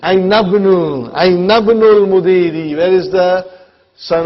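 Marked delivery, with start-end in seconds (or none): 0.0-2.8 "Ainabnul" run together without a break; linked pronunciation. Shown as a demonstration. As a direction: join "Ainabnul" as one word, dropping the initial i of "ibn". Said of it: "how will you pronounce next one".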